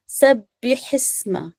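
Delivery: सब्बिहिस्मा slowly, with "bi" and "hi"; correct thin kasra. Shown as a demonstration. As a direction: draw out सब्बिहिस्मा with pure "i" vowels. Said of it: "बिल्कुल बारीक सब्बी". (सब्बिहिस्मा, धीरे, बारीक इ के साथ)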